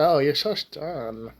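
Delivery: put-on slow, lightly Russian-accented cheerleader coo; an accidental Russian accent, drawn out slowly. Vlogger mimicking the cheerleader swooning over Mark, slow mock Russian accent. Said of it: "why'd I go Russian there?".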